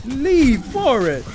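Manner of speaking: high, loud battle yelling; rage-shout through the attack; angry gamer. Real, not acted. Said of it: "I'm so angry".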